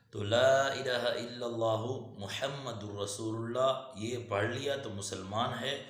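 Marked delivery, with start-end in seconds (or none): 0.2-3.9 slow, drawn-out Arabic recitation; kalima recitation. Real, not acted. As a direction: hold the long vowels, measured and even. Recites the kalima while teaching.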